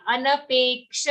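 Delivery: अनपेक्ष with a careful k-sh cluster after pe; अनपेक्ष, long pe then distinct ksha; slow ksha. Shown as a demonstration. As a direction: spell out the "ksha" sound in अनपेक्ष. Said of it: "say the letter slowly".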